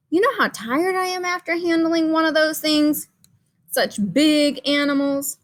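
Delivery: hammed-up weary crayon read to children; worn-out Gray Crayon.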